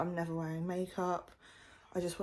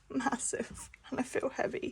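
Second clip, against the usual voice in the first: whispering; 6 semitones higher, 5 dB quieter than usual. Real, not acted. Whispered aside.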